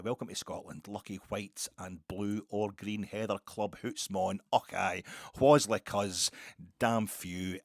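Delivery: hammed-up broad Scottish accent, loud. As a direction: shout it like a tourist-board Scotsman. Caricature of Scottish greeting.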